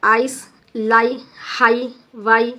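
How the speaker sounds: आइस, लाई, हाई, वाई slowly, one by one; teacher's model words आइस, लाई, हाई, वाई; sound examples. Shown as a demonstration. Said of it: "आई sound आता ये".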